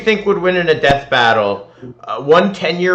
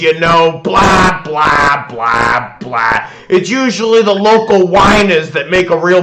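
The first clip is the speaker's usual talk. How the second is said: a lightly voiced pompous cop, louder in bursts; bossy police chief; 3 semitones higher, 4 dB louder than usual. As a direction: lecture the kid like a self-important officer, trailing into blah blah. Reads the police chief's lines.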